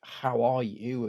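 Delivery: "How are you?" drawn out slowly, every word weighted; slow, meant question. Shown as a demonstration. Friend slowly and sincerely asking how you really are. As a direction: ask "How are you?" slowly as if you truly want the answer. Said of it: "are they genuinely asking".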